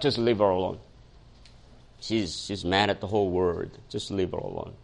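low, softened retold advice; hushed, lightly acted wifely counsel; calm advice. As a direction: quietly urge letting it go, pitched low. Wife's calming advice, retold.

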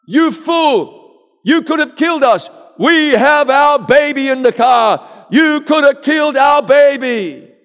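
acted furious shouting. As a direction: scream at the man who nearly killed the baby. Furious shout after road rage punch.

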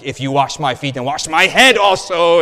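overeager Peter going all the way; eager outburst. Acted. Peter telling Jesus to wash his head too, loud eager rise.

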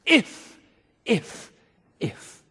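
"If, if, if" falling from a sharp jab to almost nothing; three taunting ifs. Shown as a demonstration. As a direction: taunt with each "if", letting the last die out. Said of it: "three ifs are embedded in those taunts".

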